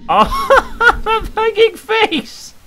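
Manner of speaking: high, laughing shriek; laugh-scream at the hanging face; scared laughter. Real, not acted. Gamer spots a hanging face, laughing high.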